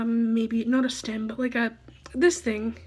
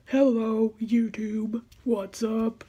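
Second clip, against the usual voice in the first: a half-whispered try at a manly guy greeting; mock manly hello, barely voiced; a faint hint of a manly dude voice; much slower than usual. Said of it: "that's my best manly voice I can do".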